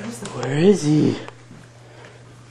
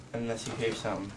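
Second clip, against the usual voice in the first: whispering; 15 dB quieter than usual. Real, not acted. Hushed instruction.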